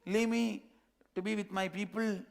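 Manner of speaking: high, loud panicked cries; screaming. Acted. Cub screaming at the lion to be freed, high loud panic. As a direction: scream to be let go. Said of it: "starts screaming".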